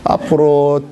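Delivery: slow, lilting mock beggar's blessing; drawn-out blessing. Beggar thanks the woman for rice, slow lilting blessing. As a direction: bless her like a singing beggar.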